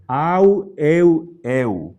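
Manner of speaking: au and eu ending in a Spanish U; Greek diphthongs. Shown as a demonstration. Teacher models Greek diphthongs for students, clearly pronounced. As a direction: say au, eu, eu as one glide into an oo sound. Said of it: "el sonido va a ser".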